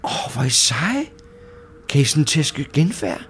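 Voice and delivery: wondering, swooping question; awed admiration. Acted. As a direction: marvel at your heroic friends. Joro admiring the ghost beaters.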